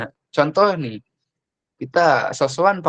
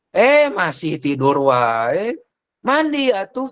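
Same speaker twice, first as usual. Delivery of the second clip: much higher, slow scolding call; exasperated call; 6 semitones higher, slower than usual. Shown as a demonstration. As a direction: nag the sleeping kid, voice climbing. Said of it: "meningkat lagi". (omelan kesal, nada tinggi)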